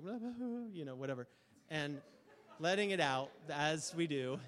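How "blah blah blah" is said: imitated sobbing blubber. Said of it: "she's like".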